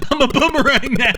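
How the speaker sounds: excited amusement. Real, not acted. Laughing at the game.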